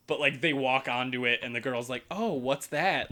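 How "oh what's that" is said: slow, drawn-out fake innocence; mock-innocent question, stretched out; playing coy. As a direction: imitate someone acting coy. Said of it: "trying to play kinda coy".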